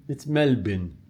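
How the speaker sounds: Melbourne said as "MEL-bin", falling at the end; correct local pronunciation. Shown as a demonstration. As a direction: finish Melbourne on a short, unstressed "bin". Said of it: "good to pronounce names correctly".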